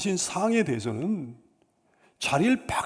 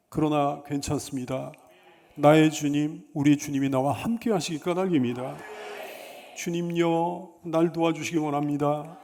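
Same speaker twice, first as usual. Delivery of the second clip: lower, measured devotional voice; prayerful meditation; 3 semitones lower than usual. Real, not acted. Preacher consoles the weary and asks the Lord's help, prayerful. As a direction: reflect gently on the hymn, low and unhurried.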